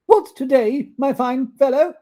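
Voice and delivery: high, loud, eager call. Acted. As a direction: call down to the boy. Scrooge calling to boy.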